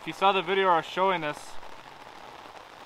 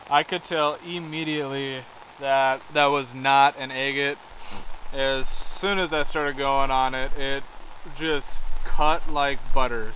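raised voice over loud saw; shouting over table saw; 4 dB louder than usual. Real, not acted. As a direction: talk loud over machine noise. Talking while saw runs.

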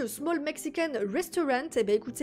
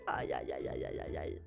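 aïe; 8 dB quieter than usual. Real, not acted. Bad profit figure on screen.

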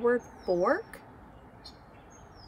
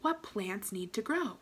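whisper; 9 dB quieter than usual. Acted. Teacher whispers a thinking question.

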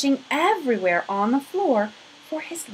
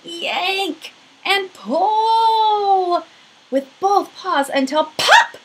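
higher, slow, strained as if pulling hard; straining effort; 10 semitones higher, 6 dB louder, much slower than usual. A narrator's reading. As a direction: heave the words out with effort. Bear strains at the button.

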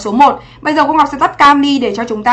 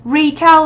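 "Retail" stressed on Re; teacher repeating RE-tail as a model; first-syllable stress; 3 semitones higher than usual. Shown as a demonstration. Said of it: "Trọng âm một".

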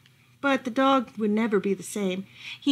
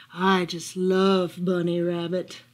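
sly fox; 4 semitones lower, slower than usual. Acted. Fox voiced in story.

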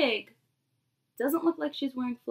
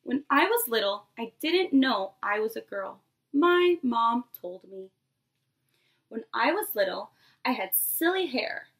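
lively picture-book read-aloud to a class; storybook voice for a nursery class; reading to children; 3 dB louder than usual. Acted. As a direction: read it like story time for little kids. Teacher reads picture book aloud.

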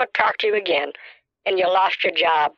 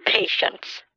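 whispered; 4 dB quieter than usual. Acted. Old lady lectures the caller.

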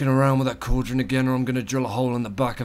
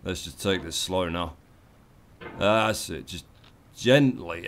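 soft coaxing; 7 semitones lower, 7 dB quieter than usual. Acted. Gamer softly coaxing Iron Man up the mountain, low and gentle. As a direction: lower and much softer, gentle as to a spooked horse.

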